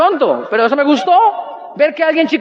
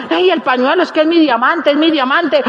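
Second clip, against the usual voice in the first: lightly voiced fretting lady; pleading lady; 2 semitones higher than usual. Lady begging him for her lost handkerchief, mock pleading. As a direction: plead insistently, a touch hammed-up.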